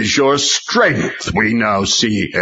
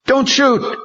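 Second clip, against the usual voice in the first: panicked shout. A narrator's reading. Lawyers shout at police from conference room, panicked. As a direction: beg them not to fire. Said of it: "shouted from the conference room".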